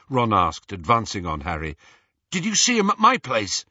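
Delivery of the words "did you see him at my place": high, louder anxious question; anxious urgent question. A narrator's reading. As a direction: demand to know, worried. Ron fears for family.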